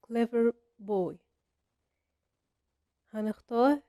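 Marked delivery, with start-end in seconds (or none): 0.1-1.1 put-on "clever boy" said slowly; slow example. Shown as a demonstration. Teacher reading a fill-in exercise slowly. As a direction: stretch out the exercise phrase. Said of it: "He is نقط".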